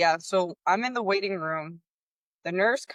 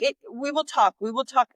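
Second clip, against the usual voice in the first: evasive nurse; 6 semitones higher than usual. Retold or imitated. Nurse dodging the mother's feeding question, mock evasive. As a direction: parrot the nurse putting her off.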